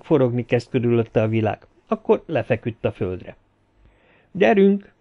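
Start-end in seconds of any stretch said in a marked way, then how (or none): 4.3-4.9 urging. A narrator's reading. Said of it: "bíztatta a hangot".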